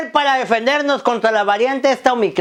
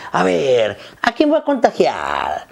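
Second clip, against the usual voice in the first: low, drawn-out villain pondering a victim; personified covid virus; 6 semitones lower than usual. Pretend. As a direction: play the virus slowly choosing its prey. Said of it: "que el covid dice".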